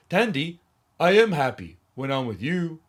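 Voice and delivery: flat, emotionless love line; no feeling, mocked. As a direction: say a tender line with nothing behind it. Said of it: "no feeling in his voice whatsoever".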